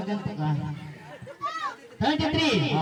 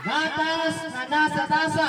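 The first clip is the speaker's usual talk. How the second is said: slow and clear; 3 semitones higher, slower than usual. Shown as a demonstration. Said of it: "Ito naman si Rigor".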